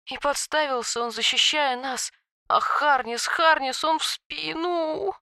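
high, soft sobbing on the inhale; talking while inhaling. A narrator's reading. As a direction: sob the words while breathing in. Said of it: "рыдая, проговорила на вдохе".

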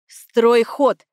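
loud commanding order; loud command shaken out of him; barked order. A narrator's reading. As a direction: order him to build it, hard. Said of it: "приказал".

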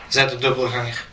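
ordinary delivery

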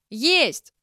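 loud, high shout; a stubborn shouted denial. A narrator's reading. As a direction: fling the word back in defiance. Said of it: "продолжала кричать".

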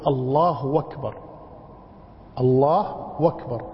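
أكبر begun with w, as wakbar; waw for hamza. Shown as a demonstration. Teacher shows the waw substitution, hamza replaced by w. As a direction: slide from الله into a w at the start of أكبر. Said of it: "بدلها واوا".

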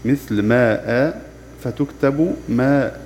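ماء and ما drawn out very slowly; slow spelling demo. Shown as a demonstration. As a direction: stretch ماء slowly, then say ما the same long way. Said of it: "تحذف ألف التنوين المنصوب". (نطق ماء ببطء شديد)

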